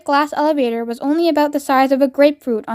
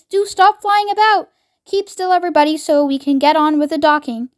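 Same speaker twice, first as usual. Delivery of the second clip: fussy chocolate maker; 4 semitones higher than usual. Acted. Wonka calling for order.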